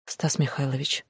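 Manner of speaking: soft, hushed plea; quiet. Acted. Glasha quietly appeals to Stas, hushed. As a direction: say his name under your breath. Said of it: "тихо проговорила Глаша".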